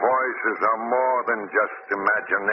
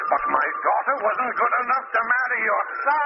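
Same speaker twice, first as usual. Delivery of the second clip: raised, bitter accusation; bitter anger; 10 semitones higher than usual. Acted. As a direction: hurl the old grievance.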